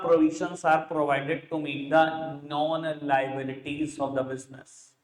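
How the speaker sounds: very slow, measured reading aloud; drawn-out words, as if writing along; slow dictation. Real, not acted. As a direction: spell out the definition slowly for note-takers. Reads out what is written.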